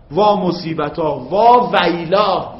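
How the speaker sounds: «وا» کشیده و آهسته با ناله; «وا ویلا» را نالان بکش; ندبه کشیده. Shown as a demonstration. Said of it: "اینها ندبه است".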